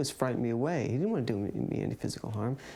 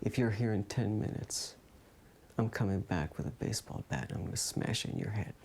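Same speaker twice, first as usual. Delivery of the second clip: low, hushed retold threat; imitated whispered threat; 3 semitones lower, 5 dB quieter than usual. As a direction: lower and softer, as if into someone's ear. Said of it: "he whispers in my ear and he says".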